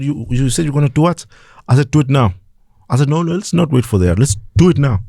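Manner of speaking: defiant dare. Retold or imitated.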